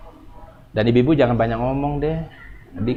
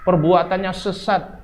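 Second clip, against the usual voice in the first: accusing; 6 semitones higher than usual. Acted. Preacher imitating someone condemning a mother, accusingly. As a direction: pronounce judgement, drawing out each charge. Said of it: "langsung ditunjuk".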